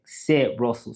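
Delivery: slow "c'est Russell" demo; French introduction. Shown as a demonstration. Showing viewers how to introduce yourself, slowly. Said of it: "So you would say your name".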